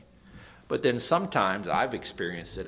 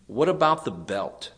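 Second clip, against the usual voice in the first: louder taunting quote, punched out; mock jeering shout; 6 dB louder than usual. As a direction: jeer it at the converted boxer. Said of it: "they screamed at him".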